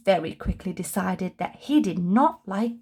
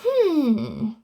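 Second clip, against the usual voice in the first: pondering hmm; 4 semitones higher, 4 dB louder than usual. Acted. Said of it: "pondered Mister Happy".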